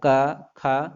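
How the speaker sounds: क, ख spoken crisply with a closed mouth; क, ख को रुकावट के साथ बोलना; consonant demo. Shown as a demonstration. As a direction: say क, ख so the stop is clear. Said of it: "आप उच्चारण करके देख लीजिए".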